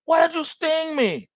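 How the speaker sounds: high, pained yelp of a stung frog; frog crying out. Acted. The frog yelping at the scorpion mid-lake, high and hurt. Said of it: "the frog goes".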